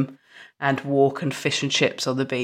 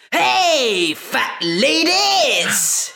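high, drawn-out cheerful call; cheery shout; 9 semitones higher, much slower than usual. Retold or imitated. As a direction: yell it out happily across the beach. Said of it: "he jumps up and goes".

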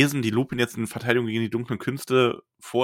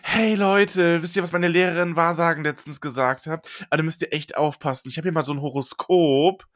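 influencer voice; 5 semitones higher than usual. Retold or imitated. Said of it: "Ich seh das genau vor mir".

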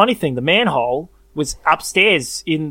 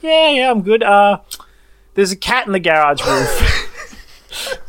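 laughing report; 4 semitones higher, 4 dB louder, slower than usual. Retold or imitated. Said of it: "I'm like".

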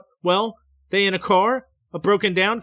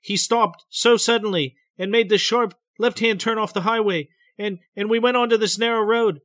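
higher, tense, hurried telling; trembling, rapid breath; 6 semitones higher, 4 dB louder than usual. A narrator's reading. Betty recounting the sudden turn to the doctor, trembling. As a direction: let the voice tremble as you rush on. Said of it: "her voice is trembling, her breath is rapid".

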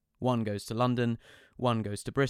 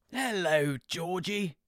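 high, eager greeting; dad thrilled to see his daughter; excited dad; 8 semitones higher, slower than usual. Retold or imitated. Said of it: "he said, waving, excited".

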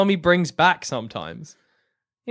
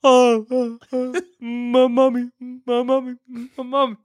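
dusty mummy rasp; 5 semitones higher than usual. Acted. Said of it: "no longer a mummy voice".

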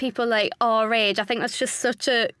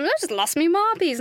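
lightly imitated Aussie accent with marbies for marbles; a fond hint of broad Australian on lost me marbies; a touch of Aussie, said with delight; 5 semitones higher than usual. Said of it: "in that lovely Aussie accent".

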